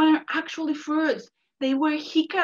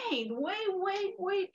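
hushed pleading; 5 semitones higher, 6 dB quieter, slower than usual. Acted. Rabbit pleads to stop coyote.

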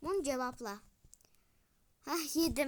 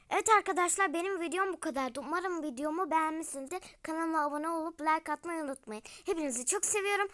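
vlog outro; 3 dB louder, much faster than usual. Acted. Video outro to viewers.

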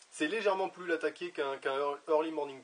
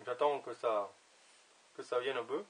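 words around a pipe stem; talking with pipe in mouth; 3 semitones lower than usual. Real, not acted. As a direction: lips gripping pipe stem. Seen 0: Pipe stem held at lips while he talks, hand supporting bowl.

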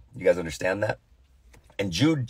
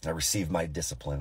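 low, soft deadpan; quiet, lowered, solemn answer; straight-faced stoicism; 6 semitones lower, 10 dB quieter, faster than usual. Retold or imitated. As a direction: imitate a stoic child refusing to cry. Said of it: "straight face".

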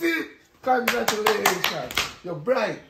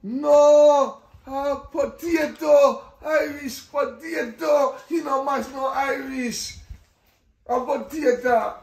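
emphatic correction; 4 semitones higher, 4 dB louder, slower than usual. Acted. Grandchild loudly correcting grandma's reading.

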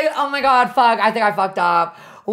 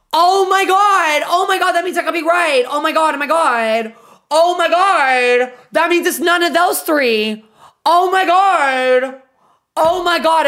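shrieking jackpot winner; 4 semitones higher, 3 dB louder than usual. Real, not acted. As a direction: savor each gasp of joy. Excited about possibly winning.

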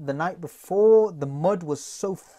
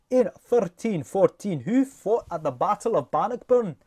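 light Scottish accent. Shown as a demonstration. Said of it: "you can read the question in Scottish".

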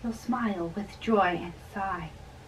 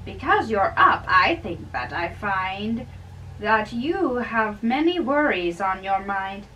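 raised, loud and jovial; cheerful old friar; 4 dB louder than usual. Acted. Old friar teasing the young man at dawn, loud and jovial. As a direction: tease the young man heartily, voice up.

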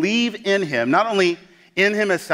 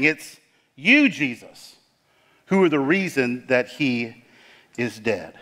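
accusing; slower than usual. Retold or imitated. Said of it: "It's almost as if she's accusing Jesus".

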